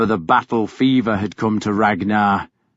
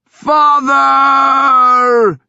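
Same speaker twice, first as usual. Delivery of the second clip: full-throated cry, much higher and louder; shouting to the sky; 14 semitones higher, 7 dB louder than usual. A narrator's reading. Ragnar to his dead father, a howling shout. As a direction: roar it up at the clouds. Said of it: "he shouted".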